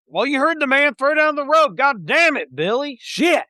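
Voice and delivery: captain cursing his deckhand Billy; cursing pirate captain. Acted. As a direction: snap at Billy to hurry. Captain yells at crewman.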